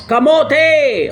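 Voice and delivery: a high, loud jeering shout; mock crowd yell. Bystanders yelling at the reckless rider, jeering shout. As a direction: holler it like angry bystanders on the road.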